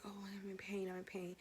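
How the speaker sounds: breathy whispered moan of pain. Retold or imitated. To the nurse while in labor, whispered moan.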